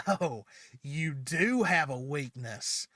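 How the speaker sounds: lightly voiced villain savoring his discovery; gloating villain. Villain gloats over fallen Yang.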